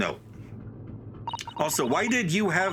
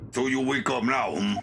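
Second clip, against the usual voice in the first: lightly attempted Russian accent; shaky-quality amateur Russian accent for a game character. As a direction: interrogator with a hint of Russian accent. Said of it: "I don't think I can do a Russian accent".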